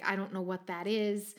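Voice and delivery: mildly dry, deadpan imitation; understated deadpan reply. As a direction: quote him with little expression. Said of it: "deadpan all the time".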